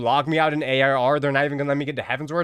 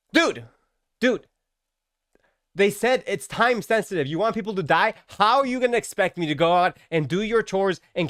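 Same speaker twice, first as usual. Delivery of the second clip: mock outrage; 5 semitones higher than usual. Outraged at miller's rat chore.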